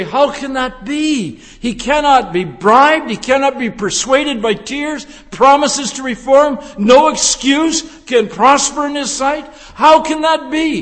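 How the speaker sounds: objector's challenge. Acted. Preacher voicing the congregation's doubt about the judge, challenging. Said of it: "And you say".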